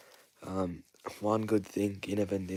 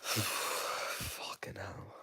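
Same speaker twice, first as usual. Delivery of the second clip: exasperated sigh; 4 dB quieter, much slower than usual. Real, not acted. Deflated after the loss.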